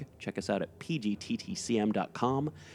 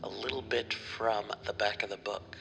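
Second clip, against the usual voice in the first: popping p sounds on the mic. Real, not acted. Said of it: "Sorry about all the popping peas".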